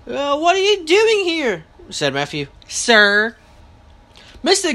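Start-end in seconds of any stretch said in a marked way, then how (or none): 0.1-1.6 indignant repeat. A narrator's reading. Matthew repeats his question to visitor. 2.7-3.4 grudging honorific. A narrator's reading. Boy adds honorific after scolding.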